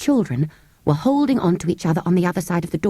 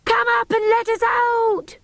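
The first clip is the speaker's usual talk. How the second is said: shouted. Acted. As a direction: yell to be let out. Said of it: "shouted Cyril".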